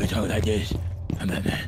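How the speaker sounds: low, rough mock Batman; parody Batman voice. Shown as a demonstration. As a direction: growl it as a joke Batman. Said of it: "the parody Batman voice".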